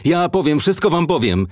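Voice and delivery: high-pitched frantic confession; terrified offer to talk; panicked pleading. A narrator's reading. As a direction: plead high, desperate to be heard. Terrified Niki begs to confess.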